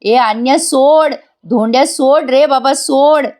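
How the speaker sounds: high mock yell, drawn out; aunt yelling. Aunt pleads over the fight, mock yelling. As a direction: yell at him to let go, slowly. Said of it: "ती आत्या ओरडत असते".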